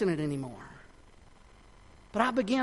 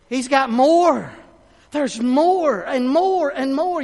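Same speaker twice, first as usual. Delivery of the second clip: loud, slow, drawn-out build; preaching at full force; 7 semitones higher, 8 dB louder, slower than usual. Real, not acted. Preacher rising to the congregation, loud and slow. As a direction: lift the room, slow and big.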